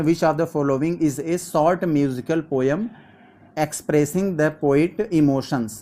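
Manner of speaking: very slow, deliberate dictation pace; slow classroom reading of a test question; exam question read-out. Acted. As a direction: read the question out word by word for students. Reads exam question aloud slowly.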